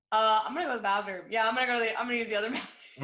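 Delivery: fast, fumbling fake excuse; lightly voiced kid sneaking off to the bathroom; mock kid excuse. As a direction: rush out a flimsy reason to leave. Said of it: "just be like".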